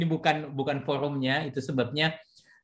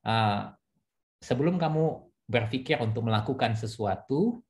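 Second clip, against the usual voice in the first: gentle counsel; 3 semitones lower than usual. Retold or imitated. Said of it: "saya cuma bilang begini".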